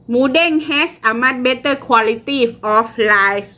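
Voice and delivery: put-on very slow, careful Thai-accent English reading. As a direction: read it word by word in a Thai accent. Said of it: "อาจจะสำเนียงประเทศไทยนะคะ".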